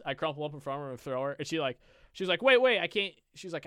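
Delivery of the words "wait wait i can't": protesting. Retold or imitated. Customer protesting retold.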